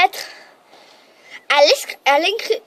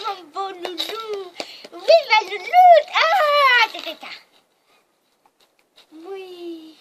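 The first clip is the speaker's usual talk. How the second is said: talking to a dog; much slower than usual. Real, not acted. Petting dog.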